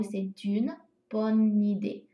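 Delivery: c'est une bonne idée with linked sounds; showing the liaison; liaison shown. Shown as a demonstration. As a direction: join the words as you say them. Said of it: "那这边有连读".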